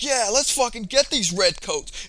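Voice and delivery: loud, high, drawn-out hype-up; excited retold battle cry; mock rallying cry. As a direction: imitate fighters suddenly rallying together. Rivals suddenly united, acted out.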